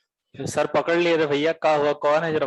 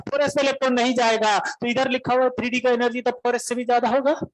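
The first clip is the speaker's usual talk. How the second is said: higher Bihari voice, building to a yell; heated Bihari protest; 4 semitones higher than usual. Retold or imitated. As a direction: argue hotly like an upset Bihari student. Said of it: "तो काहे चिल्ला रहे इतना".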